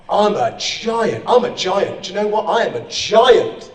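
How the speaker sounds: slow, swelling self-belief; growing affirmation. Shown as a demonstration. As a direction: declare it to the mirror, growing stronger. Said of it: "look at it and say".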